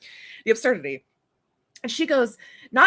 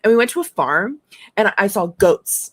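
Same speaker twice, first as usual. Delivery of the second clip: niece voice; 3 semitones higher, 8 dB louder than usual. Retold or imitated. Aunt voicing her four-year-old niece. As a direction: play the little niece telling about the farm.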